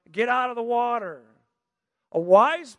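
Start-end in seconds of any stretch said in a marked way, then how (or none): 0.1-1.2 lifeguard yelling. Retold or imitated. Lifeguard yelling at the family to get out. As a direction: call it like the lifeguard. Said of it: "that lifeguard's yelling".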